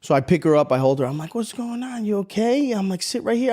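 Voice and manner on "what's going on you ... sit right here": put-on soothing child-directed voice. Cop soothing a distraught toddler.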